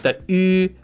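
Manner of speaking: "u" with rounded lips, front tongue; Mandarin ü. Shown as a demonstration. Teacher showing the rounded Mandarin u. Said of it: "exists in French as well".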